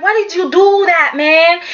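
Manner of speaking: mock an irritated man demanding an explanation; mildly pissed. Rich questions Wyatt about telling the secret, mildly pissed. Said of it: "Rich is a bit pissed".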